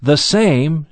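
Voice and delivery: "same" stressed and held; emphatic SAME. Acted. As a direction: land firmly on "same", then pause. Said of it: "again, there it's emphatic".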